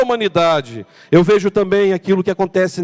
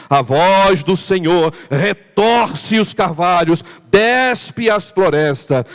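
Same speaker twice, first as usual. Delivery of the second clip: majestic psalm reading; slower than usual. Shown as a demonstration.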